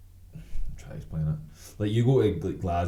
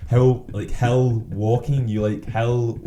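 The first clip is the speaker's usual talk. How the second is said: laughing; 6 semitones higher, 6 dB louder, slower than usual. Real, not acted. Laughing at himself.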